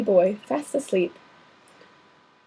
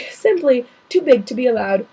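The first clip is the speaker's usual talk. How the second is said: laughing; 4 dB louder than usual. Real, not acted. Reader laughs at the giant.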